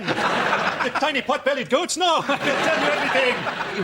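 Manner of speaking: high, slow, laughing confession; hammed-up desperate begging; mock cracking prisoner. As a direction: give in like a broken captive. Badger cracking under torture.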